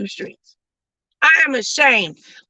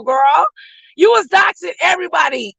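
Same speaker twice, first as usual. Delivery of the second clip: normal talking voice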